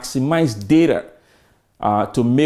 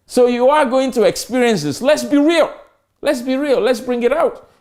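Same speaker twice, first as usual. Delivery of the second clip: emphatic; 9 semitones higher than usual. Real, not acted. Emphatic lecture point.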